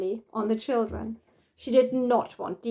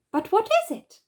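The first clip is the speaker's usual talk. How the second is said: puzzled; 12 semitones higher, 3 dB louder than usual. Acted. Mother puzzled by brown squares.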